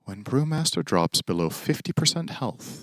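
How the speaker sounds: dramatic reading. Pretend. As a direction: read the patch notes like solemn drama. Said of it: "it will be a dramatic read".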